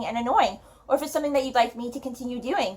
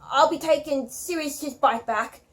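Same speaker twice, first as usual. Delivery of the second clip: muffled voice. Acted. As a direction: talk as if through a hanky. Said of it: "in a very muffled voice".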